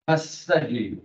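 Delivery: "Passager" with the middle s sound drawn out; demonstrating the S sound. Shown as a demonstration. Trainer checking a word for the sound, "Passager" with a lengthened s. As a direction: dwell on the double s in "Passager". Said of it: "vous entendez le son ce".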